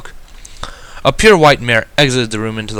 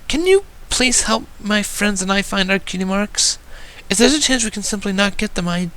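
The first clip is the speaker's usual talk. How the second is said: tearful pleading filly; 11 semitones higher, 4 dB quieter than usual. Acted. Filly begs the stranger for help, high and tearful. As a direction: beg for help with watery eyes. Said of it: "she started to rapidly spill out".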